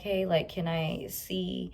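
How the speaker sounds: slow, slurred through numbness; numb mouth. Retold or imitated. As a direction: speak like your mouth is numb. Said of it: "it's so hard for me to talk 'cause I can't feel my mouth".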